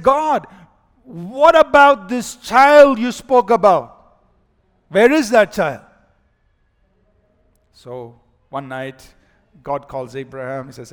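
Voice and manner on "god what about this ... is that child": questioning God. Retold or imitated.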